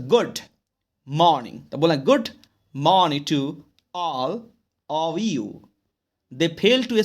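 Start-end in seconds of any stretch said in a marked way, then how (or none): 0.1-5.5 "good", "morning", "all", "you" each stressed apart; word-by-word stress demo. Shown as a demonstration. Teacher showing students where stress falls, deliberately stressed good morning to all of you. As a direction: pause between words, leaning on good and morning. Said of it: "किस word पे कितना जोर देना".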